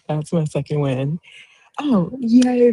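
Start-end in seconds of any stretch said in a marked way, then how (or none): 1.8-2.7 high-pitched happy "yay"; excited, lifted celebration; delighted cheer. Real, not acted. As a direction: cheer for a friend's good news. Cheering a friend's wins.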